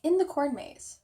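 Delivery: incredulous echo. Retold or imitated. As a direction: echo the dad's words as if you can't believe them. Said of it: "I'm serious".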